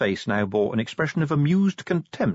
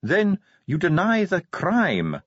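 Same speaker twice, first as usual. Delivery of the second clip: slow, higher-pitched dwarf insistence; Ardent, persistent; 11 semitones higher, 4 dB louder than usual. A narrator's reading. Dwarf will not drop the charge, persisting. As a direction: press the accusation deliberately, word by word. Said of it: "Ardent persisted".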